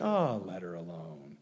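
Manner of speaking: low and soft, gently letting her be; a tender hush of a rebuke; soft, gentle rebuke. Pretend. Jesus quietly telling Judas to leave Mary be, softly. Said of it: "I don't know what the tone of voice was".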